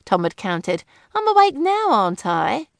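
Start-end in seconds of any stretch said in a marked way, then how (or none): 1.1-2.7 much higher, louder protest; wife retorting to husband's jibe, belligerent. A narrator's reading. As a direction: jump up in pitch to fight back. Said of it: "Daisy had said belligerently".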